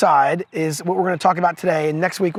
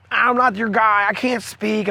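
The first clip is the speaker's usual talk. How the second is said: mock protest, a touch faster-tongued pushback; 3 semitones higher than usual. Moses giving God flack about being sent, mildly protesting. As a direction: lightly imitate Moses making excuses. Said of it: "giving him all kinds of flack".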